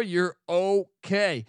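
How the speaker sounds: stretched out, slow and calm; slow reassurance. Acted. Telling the listener the store has them covered, slow and calm. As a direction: draw it out slowly to settle them down.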